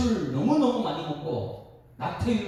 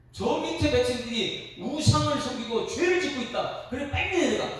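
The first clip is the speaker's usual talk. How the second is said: raised-pitch, acted divine anger; angry God; 6 semitones higher than usual. God tells Moses of the people's sin, angrily. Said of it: "막 그러면서 화를 막 냅니다".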